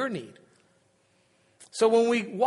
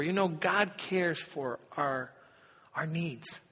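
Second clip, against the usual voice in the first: put-on gentle, slow and softer, like a believing child; sincere; 3 semitones lower, 7 dB quieter, slower than usual. Preacher imitating his young sister telling family, sincere and soft. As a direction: say it simply and earnestly. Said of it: "And she was so sincere".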